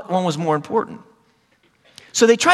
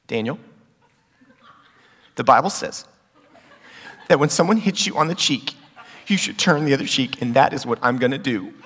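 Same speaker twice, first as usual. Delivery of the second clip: put-on pious older brother; 5 semitones lower, 3 dB quieter than usual. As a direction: pronounce it gravely, with long pauses. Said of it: "he goes".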